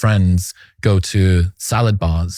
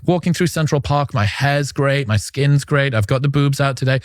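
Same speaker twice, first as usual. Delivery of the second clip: higher-pitched imitation of a girl; imitating a girl; 5 semitones higher than usual. Commentator relaying a girl's park walk, imitating her higher. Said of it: "she's basically saying".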